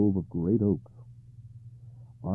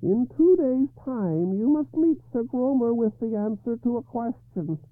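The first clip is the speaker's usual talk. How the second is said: harsh croaking voice; 8 dB louder than usual. A narrator's reading. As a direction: croak it out like a grotesque old woman. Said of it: "in a harsh, croaking voice".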